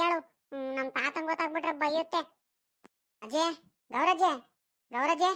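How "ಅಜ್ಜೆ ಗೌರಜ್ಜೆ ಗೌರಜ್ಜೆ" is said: raised calling voice, name repeated. Acted. Child calls to grandmother nearby, calling out. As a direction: call out for grandmother. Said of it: "ಹಿಂಗ್ ಕಿರ್ಚಾಡ್ತಿದ್ಯಲ್ಲ".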